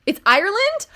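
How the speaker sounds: squeaky high disbelieving question; wait, it's Ireland?; surprised. Real, not acted. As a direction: shoot way up in surprise. Surprised by chat's answer.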